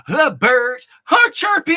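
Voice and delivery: high, loud singsong announcing the birds; chirpy greeting to the morning; playful bird talk. Pretend.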